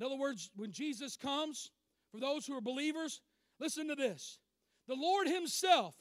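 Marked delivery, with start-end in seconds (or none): 4.9-5.9 "Lord Himself" slowed and weighted; emphatic. Shown as a demonstration. Preacher quoting Scripture to the church, emphatic. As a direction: lean firmly on "The Lord Himself". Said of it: "that's emphatic in the Greek".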